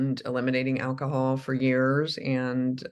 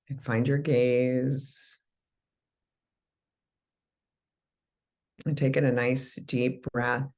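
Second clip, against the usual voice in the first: guided meditation. Acted. Begins guiding the meditation.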